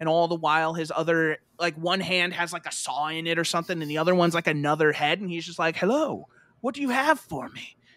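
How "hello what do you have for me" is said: put-on creepy skeleton creature voice, much higher. Retelling meeting a skeleton skull guy machine, in a creepy skeleton skull guy voice. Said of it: "my impression of this this skeleton skull guy machine".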